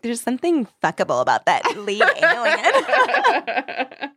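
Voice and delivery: high, drawn-out line breaking into laughter; laughing mock swoon. Podcaster voices the smitten heroine for her co-host, laughing mock swoon. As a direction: let a giggle take over the quote.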